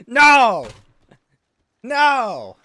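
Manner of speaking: loud, high, outraged no; shouted no. Real, not acted. Streamer recoiling from the pizza post, loud outraged shout. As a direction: yell the refusal in disgust.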